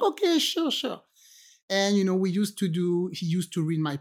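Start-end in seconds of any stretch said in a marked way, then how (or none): 0.0-1.0 lightly voiced shrug, higher pitch; a half-hearted, dismissive okay; mock breezy agreement. Retold own reply to friend.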